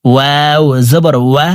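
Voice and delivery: ওয়া with lips rounded and a gap between; ওয়াও with rounded lips. Shown as a demonstration. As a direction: round the lips for ওয়াও, without closing them. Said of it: "দুই ঠোঁট গোল করে". (ঠোঁট গোল করে ওয়াও উচ্চারণ)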